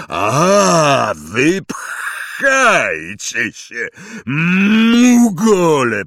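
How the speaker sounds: loud, slow, scornful bellow; contemptuous outburst. Acted. Hagrid to the Dursleys, scornful bellow. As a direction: wave them off with a roar.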